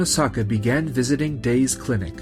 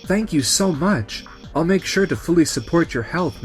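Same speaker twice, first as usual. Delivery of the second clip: grateful; 4 semitones higher than usual. Acted. Nurse thanking the patient who chose the clinic, grateful. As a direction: draw out the thanks, touched.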